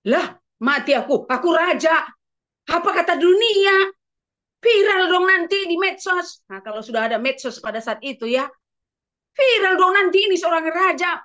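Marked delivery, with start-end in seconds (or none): 0.1-6.4 rising alarm, louder toward the end; mock panic, getting louder; panicked king. The king panics over going viral. 9.4-11.2 loud mock panic; hammed-up alarm of a king; panicked king. The king frets aloud to himself, loud mock panic. Panicked David repeats fear.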